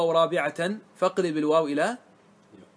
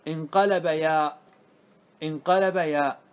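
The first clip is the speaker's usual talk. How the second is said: slow emphasis; slower than usual. Shown as a demonstration. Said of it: "teacher stresses the rule".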